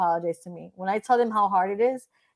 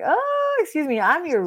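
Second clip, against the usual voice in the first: mock indignant; 8 semitones higher than usual. Telling off a belittling client, mock outrage. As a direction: pitch leaps way up on the oh, scoffing.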